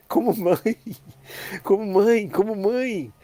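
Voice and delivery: high, loud, ringing "como mãe"; exultant repetition. Acted. Preacher exults to the congregation that Mary is given as mother, high and loud. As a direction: proclaim "como mãe" with rising joy. Repeats the key phrase.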